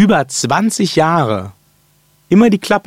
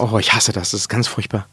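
soft mock ASMR whisper; breathy whisper, barely voiced; 4 semitones lower, 5 dB quieter than usual. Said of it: "Ganz leise".

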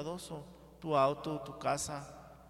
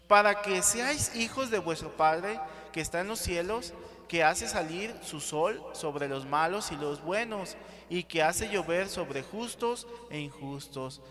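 scripture reading; 4 dB louder than usual. Acted. Preacher reads scripture aloud.

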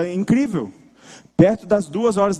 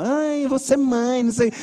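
eager would-be mother. Retold or imitated. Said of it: "Elô tá doida pra ser mãe".

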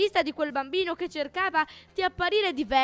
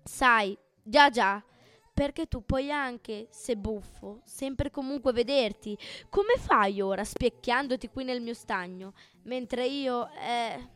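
low and sad. Acted. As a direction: wistfully admit your envy. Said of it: "più bassa, anche un po' triste". (un po' triste, più piano)

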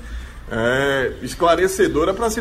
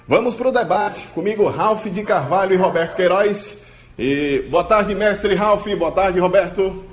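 far from mic; 3 semitones higher than usual. Real, not acted. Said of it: "Acho que você tá falando muito longe do microfone".

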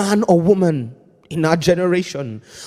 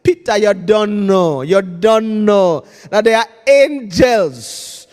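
put-on Gerard's accent. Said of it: "in Gerard's language's accent".

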